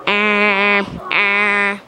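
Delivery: long droning alarm tone; warning alarm imitation. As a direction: imitate a TV emergency warning buzzer. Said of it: "You know those warnings?".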